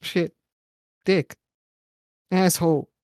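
loud mock pained cries after a pretend bike fall; pretend distressed. Host pretending to fall off his bike in Paris, hammed-up distress. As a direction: ham up crashing off a bike and cursing. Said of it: "As you can see, I said distressed".

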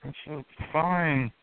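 slow, dry sarcastic praise. Acted. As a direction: say it like you mean the opposite. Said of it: "He says sarcastically".

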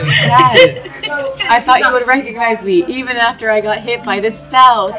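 mock wailing son. Player pretending to be the son, mock crying to the bugbear. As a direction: ham up a tearful son begging Dad.

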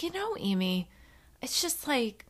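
softly imitated friend confiding; quiet, private admission, retold. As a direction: drop to a hushed, confessional voice. Retells friend's confiding remark.

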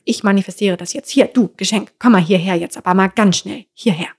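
loud, pushy order to the cosmic gift; demanding command. Pretend. Bossy person barking at a cosmic gift to come here.

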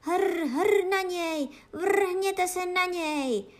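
high, loud guard-dog attack cry; loud, high-pitched rallying yells; battle shout. A narrator's reading. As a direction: roar them on into the fight. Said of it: "vykřikl Bufíno silným hlasem".

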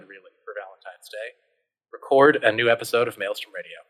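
wry storybook narration, settling down; story narration. A narrator's reading. Narrator closing the adventure's chapter, measured storytelling. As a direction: wrap up the tale like a narrator.

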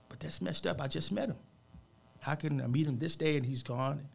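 hurt, disbelieving retelling; retold hurt protest. Retold shocked protest at death news.

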